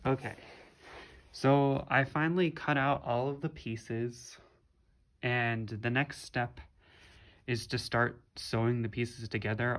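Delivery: speaking through a face mask; muffled, mask over mouth. Real, not acted. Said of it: "if I sound muffled".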